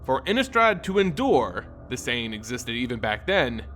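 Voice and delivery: measured storyteller read, even and unhurried; story narration. A narrator's reading. Narrator telling Sorin's story, measured read. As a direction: tell the tale of Sorin steadily.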